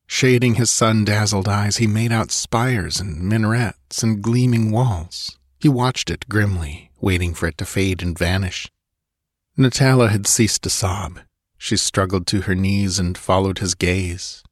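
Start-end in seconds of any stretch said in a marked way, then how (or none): none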